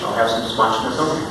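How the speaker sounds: lightly ordering blanchizomai like a dish; a playful menu order of blanchizomai; mock restaurant order. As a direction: play a diner ordering blanchizomai. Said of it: "Sounds like a Greek dish".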